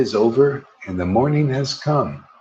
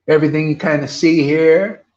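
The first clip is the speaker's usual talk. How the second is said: call to the crowd; 3 semitones higher, 4 dB louder than usual. Shown as a demonstration. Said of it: "One more time".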